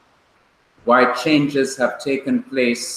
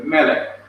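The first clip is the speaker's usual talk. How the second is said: "Melek" with the accent up front, falling away; stress on first syllable; 2 semitones higher than usual. Shown as a demonstration. Teacher repeats the Hebrew word for king, stressing first syllable of "Melek". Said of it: "The accent is on the first syllable".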